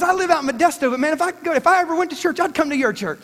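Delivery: lightly voiced excited fan at a party; imitating a fan. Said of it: "He goes".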